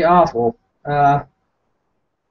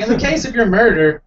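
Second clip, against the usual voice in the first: mock smug, raised pitch; 4 semitones higher than usual. Comic quoting the jail officer once more, smugly. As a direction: quote it smugly in a higher voice. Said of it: "with a smug accent".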